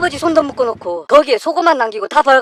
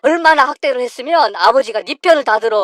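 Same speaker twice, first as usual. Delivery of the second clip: furious berating. Acted. Husband berating his wife for abusing his father, furious. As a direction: tear into her.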